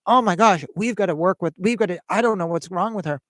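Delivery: retelling a frantic father's outburst; alarmed father. Retold or imitated. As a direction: blurt it out like a worried father. Worried father blurts out to them.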